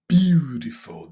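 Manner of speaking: BEAUTIFUL slow and loud, falling at the end; word intonation demo. Shown as a demonstration. Teacher models the word for students, slow falling intonation. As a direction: stretch BEAUTIFUL out firmly, then let it fall. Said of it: "that's the intonation".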